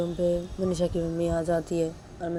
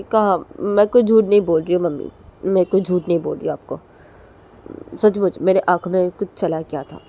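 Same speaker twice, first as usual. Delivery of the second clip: loud, defensive protest; loud denial; 8 dB louder than usual. Acted. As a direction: insist loudly she isn't lying. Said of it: "Manisha बोलती कि". (ज़ोर से सफ़ाई देती बेटी)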